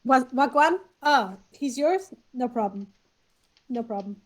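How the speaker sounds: attempted Cockney slipping into Glaswegian; lightly attempted London accent. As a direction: try a Cockney shark, lose it to Glaswegian. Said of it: "the attempt at Cockney ... slide back into Glaswegian".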